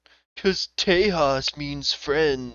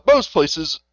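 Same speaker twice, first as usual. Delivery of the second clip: slow, louder mock explainer; exaggerative TikTok lady; 3 semitones higher, 6 dB louder, much slower than usual. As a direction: stretch it out, lightly mocking her. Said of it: "she's, like, being exaggerative".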